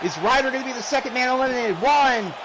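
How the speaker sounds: rapid live ringside play-by-play; wrestling commentator. Real, not acted. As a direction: call every move as it lands.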